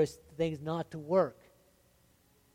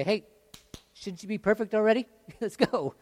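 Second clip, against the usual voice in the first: mock impatient push; 7 semitones higher, 7 dB louder than usual. Preacher mocks his own impatience.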